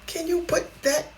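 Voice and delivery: whispered in disbelief, almost no voice; hushed awe at the figures; stunned whisper. Real, not acted. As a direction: breathe it out like you can't believe it. Reacting in awe to the numbers.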